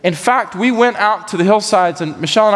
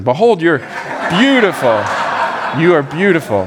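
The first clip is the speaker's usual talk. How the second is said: formal scripture reading. Acted. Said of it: "I gotta stick to the E S V".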